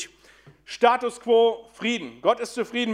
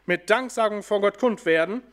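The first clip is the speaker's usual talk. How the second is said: solemn scripture reading. Acted. Reads the Bible passage aloud.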